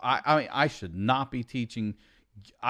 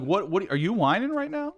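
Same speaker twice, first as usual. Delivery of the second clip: mock scolding; 9 semitones higher than usual. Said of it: "I'm like".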